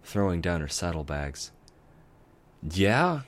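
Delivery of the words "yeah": a raised answer from up high; calling back. Acted. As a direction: call down from the shelf. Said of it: "Spike called from atop a bookshelf".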